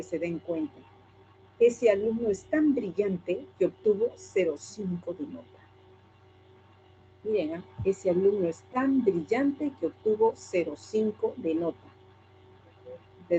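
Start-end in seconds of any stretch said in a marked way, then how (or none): 1.6-5.5 sarcastic. Shown as a demonstration. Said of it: "vamos con otro tono". 7.8-11.8 sarcastic. Shown as a demonstration. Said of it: "vamos con otro tono".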